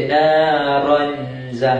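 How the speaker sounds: naronza with a clear separate n; wrong reading. Shown as a demonstration. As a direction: say naronza with the n too distinct. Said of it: "ha, salah".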